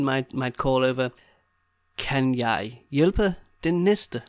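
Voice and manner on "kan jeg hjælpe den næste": very slow, words set apart; slow demonstration. Shown as a demonstration. Teacher modelling the assistant's call, word by word. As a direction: lay it out slowly for learners.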